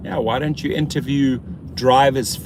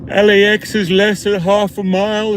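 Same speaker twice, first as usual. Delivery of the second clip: hype announcement; 8 semitones higher, 7 dB louder than usual. Real, not acted. Loud hyped announcement.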